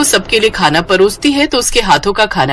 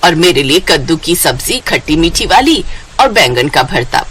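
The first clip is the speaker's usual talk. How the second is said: in-laws ordering dishes from the bride, lower voice; lower, bossy elder; 4 semitones lower than usual. Acted.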